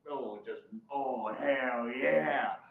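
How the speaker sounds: drawn-out, relishing delight; retold excitement, slow and savored; super excited. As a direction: stretch it out with anticipation. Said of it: "like, super excited".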